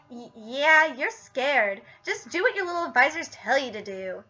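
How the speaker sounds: attempted character voice, softly taunting; Mister Slave. Mister Slave goading Garrison over bombing, softly taunting. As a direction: needle him softly in a rough impression. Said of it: "doing the best Mister Slave voice".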